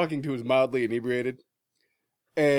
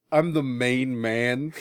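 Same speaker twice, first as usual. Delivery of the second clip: slow tough-guy delivery; slow gruff Lobo line; much slower than usual. Retold or imitated. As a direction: say it slow like a badass. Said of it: "To hear him go".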